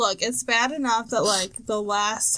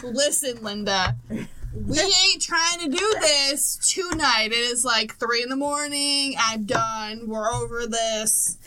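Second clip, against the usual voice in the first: retold fed-up lecture; slower than usual. Acts out scolding the spirits.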